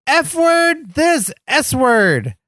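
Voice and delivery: high, drawn-out mock battle cry; mock yell. Retelling Superhuman's catchphrase, high mock yell. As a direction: imitate a stuntman psyching himself up. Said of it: "taking his shirt off and yelling".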